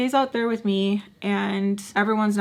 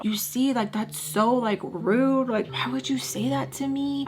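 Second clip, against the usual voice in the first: mildly whiny mock complaint; mock whining; 3 semitones higher than usual. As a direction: imitate a boyfriend's higher, hurt whine. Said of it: "he's whining, like, whining".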